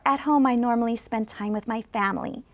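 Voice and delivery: falling model sentence; falling intonation. Shown as a demonstration. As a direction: end falls on "family". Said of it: "going down and going down".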